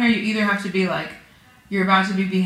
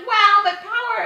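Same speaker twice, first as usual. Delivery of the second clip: mock awe; 12 semitones higher, 3 dB louder than usual. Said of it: "I was almost gonna be like".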